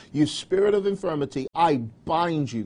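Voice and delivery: bind the spirit word by word; commanding prayer. Shown as a demonstration. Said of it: "just say".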